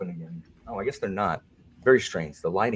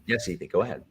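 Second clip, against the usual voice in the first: prim moderator voice. Pretend. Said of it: "if this is the new Alan".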